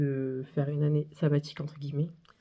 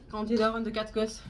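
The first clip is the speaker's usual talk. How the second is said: usual speaking voice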